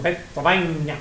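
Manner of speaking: stretched PENNSYLVANIA, as in the movie; film-style Pennsylvania. Retold or imitated. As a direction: draw out the end of "Pennsylvania". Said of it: "the reason I say Pennsylvania".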